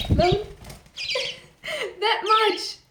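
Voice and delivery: laughing. Real, not acted. Laughs while telling viewers.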